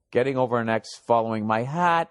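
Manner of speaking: put-on reading it in a light Boston accent; a hint of Boston vowels on hat. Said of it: "He's trying to write in the Boston accent".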